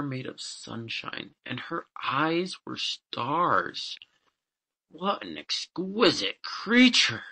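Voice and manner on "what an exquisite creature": high, drawn-out exclamation of wonder; slow, high-pitched admiration; admiring cry. A narrator's reading. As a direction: marvel slowly in a raised pitch. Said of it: "cried the farmer".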